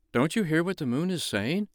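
high snowman voice. Acted. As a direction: nudge the boy along. Snowman urges boy.

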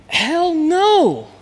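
loud, high, indignant shout; angry outburst as Paul. Retold or imitated. Pastor voicing Paul's outraged answer to sinning, shouted. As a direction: explode with outrage. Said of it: "that's how passionate and excited he is".

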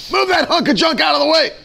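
high-pitched mock road rage holler; road rage yell. Husband imitates wife yelling at drivers, hammed-up road rage. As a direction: yell it at the car blocking you. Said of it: "I'm the road rage king".

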